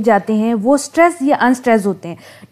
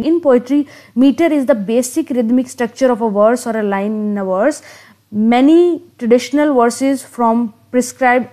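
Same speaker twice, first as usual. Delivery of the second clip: reads the definition word by word, very slowly; slow dictation; much slower than usual. Acted. Teacher dictating a definition of meter to students, very slow. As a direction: spell it out slowly so students can write it down.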